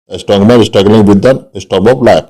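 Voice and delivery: slow, with the st sounds of "strong", "struggling" and "storm" brought out; teacher repeating the example for students, slowly and clearly; slow example read. Shown as a demonstration. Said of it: "इसका तीन बार use किया गया".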